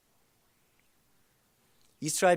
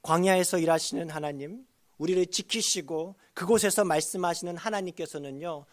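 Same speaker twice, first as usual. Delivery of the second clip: ordinary talk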